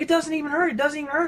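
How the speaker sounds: high, amazed repeating; can't believe it, overjoyed; amazed joy. Retold or imitated. Healed friend repeating in amazement.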